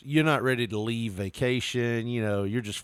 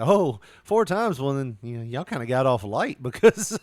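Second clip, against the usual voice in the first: mock chirpy manager; 4 dB louder than usual. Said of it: "She's like".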